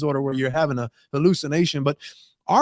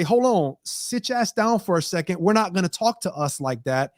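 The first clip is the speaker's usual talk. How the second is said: standing up to oneself. Acted. Talking back to your own bully voice, mildly firm. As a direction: put your foot down with some oomph. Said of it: "has a little bit of oomph".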